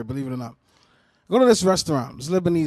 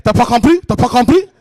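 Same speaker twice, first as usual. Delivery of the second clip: louder, higher mock-insistent question; incredulous questioning; 4 semitones higher, 8 dB louder than usual. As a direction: imitate a pushy man demanding an answer. Impatient restaurant man quoted in Creole.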